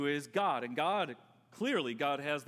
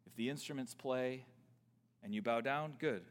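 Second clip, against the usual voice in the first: king's threat; 6 semitones lower, 4 dB quieter than usual. Retold or imitated. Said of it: "He restates".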